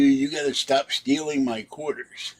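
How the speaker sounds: imitating a man yelling about quarters; retold yell. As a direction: demand it like the ranting stranger. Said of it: "He screams and yells at the top of his lungs".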